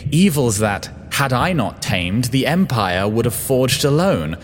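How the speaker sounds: impassioned, high-pitched self-defence; vain pleading. A narrator's reading. Creator justifying the forging to his clone, pleading desperately. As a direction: plead your case, voice soaring high. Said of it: "I pleaded vainly".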